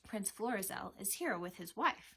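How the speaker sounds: measured servant's announcement; mildly formal proclamation; announcing. A narrator's reading. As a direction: announce a royal guest. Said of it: "he announced".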